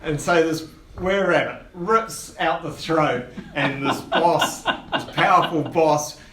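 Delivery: dramatic game master scene-setting; game master narration. Acted. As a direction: narrate the gory blow to the players.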